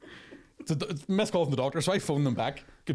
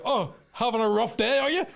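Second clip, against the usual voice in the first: high, louder fake concern; mock sympathy pitched up; sarcastic mock sympathy; 10 semitones higher, 4 dB louder than usual. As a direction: needle her with fake pity. Sarcasm at sighing receptionist.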